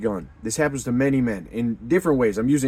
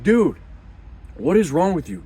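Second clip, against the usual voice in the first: louder and higher, incredulous Dude; exasperated call-out; 6 semitones higher, 4 dB louder than usual. Retold or imitated. Brotherhood mocks a sheepish new member, loud. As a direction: snap him out of it, loud and high.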